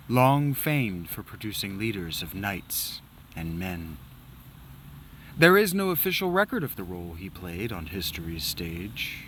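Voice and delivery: hushed, grand storyteller read; hammed-up historian voice; dramatic narration. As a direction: lay out the legend with gravity. Reads game intro dramatically.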